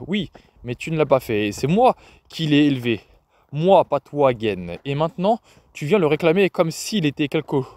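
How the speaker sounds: understated fury, held in; mild, pointed anger; furious. Acted. Grandmother defending the boy to his father, restrained fury. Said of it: "il y avait de la fureur en elle".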